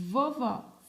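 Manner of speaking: "Vovó" with a long buzzing v at the start; held first sound. Shown as a demonstration. Teacher asking children to notice the sound, "Vovó" with held v. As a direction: lean on the opening v of "Vovó". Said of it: "olha o som".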